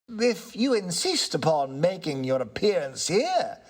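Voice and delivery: polite, regaining his nerve; lightly voiced tenant. Tenant answers the ghost, calm and courteous.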